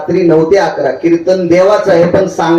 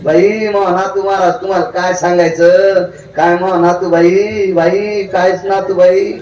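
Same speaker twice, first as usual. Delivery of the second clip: imitating village woman; 3 semitones higher, slower than usual. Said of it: "एक बाई म्हणली".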